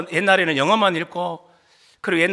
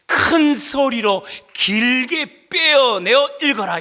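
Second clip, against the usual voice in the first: slow, stretched syllables; drawn-out instruction; 3 semitones higher, much slower than usual. Shown as a demonstration. Preacher explaining the reading mark, drawn out. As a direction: draw each word out at length. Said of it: "문장 부호가 뭐냐면".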